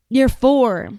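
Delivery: mock talking down to a small child; lightly mimicked condescending official; Pam Bondi. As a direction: spell it out for a four-year-old. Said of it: "talking like everyone is four years old".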